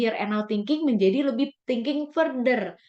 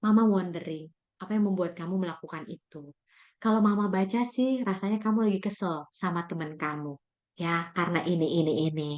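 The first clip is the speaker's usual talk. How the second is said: gentle door opener; 4 semitones lower than usual. Shown as a demonstration. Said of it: "door opener".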